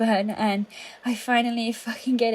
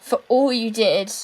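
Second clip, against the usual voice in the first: defiant; 6 dB louder than usual. Acted. Defiant final stand.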